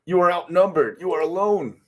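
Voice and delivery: menacing comic villain. Acted. Acts out villain's threat in comic.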